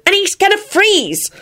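high, drawn-out dismay; shuddering. A narrator's reading. Ginny fears for George, shuddering. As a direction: wail it slowly, appalled. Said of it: "she shuddered".

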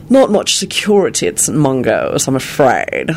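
languid, haughty disdain; yawning disdain. A narrator's reading. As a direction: toss it off with bored contempt. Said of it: "yawned the disdainful voice".

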